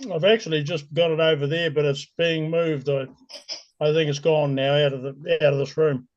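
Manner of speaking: talking through a mouthful of apple; words round a bite of apple; chewing an apple. Real, not acted. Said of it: "chewing an apple at the same time".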